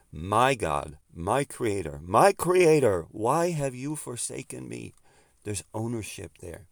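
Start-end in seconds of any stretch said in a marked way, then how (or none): 0.1-4.9 rising to a loud, high cry on the second creator; anguished cry. Retold or imitated. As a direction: cry it out to God from the cross.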